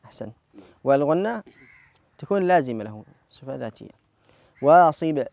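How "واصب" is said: "واصب" with a small bounce released on the ب; qalqala on final Ba. Shown as a demonstration. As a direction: finish "واصب" with an echoing ب. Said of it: "قلقلة في الباء".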